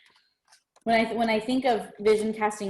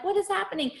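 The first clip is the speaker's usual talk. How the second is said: retold disbelief; 9 semitones higher than usual. Woman retelling her comparing herself to others, incredulous. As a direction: replay the bafflement at a higher pitch. Same retold reaction, repeated.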